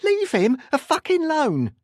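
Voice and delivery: very high, loud furious scream. A narrator's reading. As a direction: scream at them to release your son. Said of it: "screaming at them".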